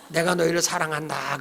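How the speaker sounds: lightly voiced God, low and soft; God's declaration. Shown as a demonstration. Preacher cueing the congregation as God, low and solemn. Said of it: "한번 우리 리얼하게 해봅시다".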